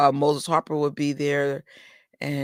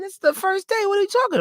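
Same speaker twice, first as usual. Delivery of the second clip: pitched way up in retold outrage; upset; 14 semitones higher, faster than usual. Telling the theater worker about the sold-out merch, high incredulous outrage. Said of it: "but I was really upset".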